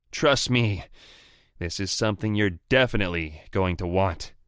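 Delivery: urgent rival voice. Acted. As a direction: push hard so he listens. Anton pleading fast.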